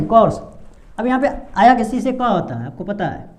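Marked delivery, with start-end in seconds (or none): 0.0-0.4 "कोर्स" said alone with a short rising end; model word. Shown as a demonstration. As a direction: repeat "कोर्स" clearly as a model. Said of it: "इसको कोर्स पढ़ेंगे".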